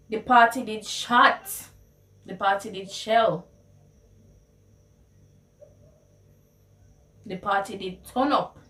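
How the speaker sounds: hyped Patois party talk; Jamaican Patois. Shown as a demonstration. Raving about the party, in excited Jamaican Patois. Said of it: "how you would translate".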